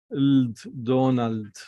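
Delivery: "Donald" slow, with a held d and an ah-o vowel; sounding out slowly. Shown as a demonstration. Teacher reading Donald's name slowly with vowels. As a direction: read the syllables slowly together. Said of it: "Do, Na".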